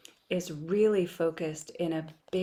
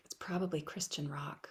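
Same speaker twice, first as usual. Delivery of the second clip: deadpan joke; 2 semitones lower, 6 dB quieter than usual. Real, not acted. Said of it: "I know you think I'm joking".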